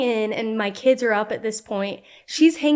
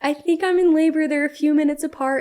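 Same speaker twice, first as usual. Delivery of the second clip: higher, urgent call to a friend; a touch of alarm in labor; mild retold panic; 5 semitones higher than usual. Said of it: "I'm crying".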